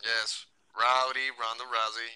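slow, unimpressed drone; mock excitement, deadpan. Real, not acted. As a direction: say the name with sarcastic lack of enthusiasm. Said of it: "You hear the excitement in my voice?".

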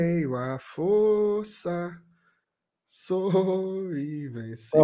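slow, drawn-out hero proclamation; mock hero voice. Mock heroic quote.

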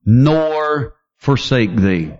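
slow, solemn reading of the verse; measured pulpit reading; slow scripture reading. Acted. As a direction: read the verse slowly and gravely.

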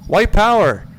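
loud, high sneering shout; mock racist yell. Retold stranger yelling a slur. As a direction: spit it out like a hostile passerby. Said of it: "somebody goes and says".

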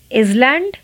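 island with the S sounded, iz-land; wrong pronunciation. Shown as a demonstration. Teacher demonstrates the mistaken iz-land. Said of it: "island नहीं".

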